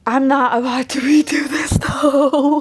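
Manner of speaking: breathy whispered aside with a giggle; real whisper, half laughing. Real, not acted. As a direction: whisper it so no one wakes. Sudden hushed aside.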